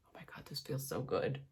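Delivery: soft, breathy whisper of pleasure; blissful whisper. Real, not acted. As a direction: sigh it out as if melting. Applying powder, sensory delight.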